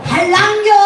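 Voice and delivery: put-on high, loud Gyeongsang-accented question; Gyeongsang dialect. Repairman asks if it's Halla apartment, Gyeongsang accent. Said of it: "한라입니까? 이래야 되는데".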